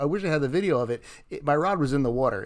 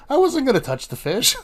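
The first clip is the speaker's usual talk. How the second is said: indignant Kim; 10 semitones higher, 3 dB louder than usual. Retold or imitated. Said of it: "She's like".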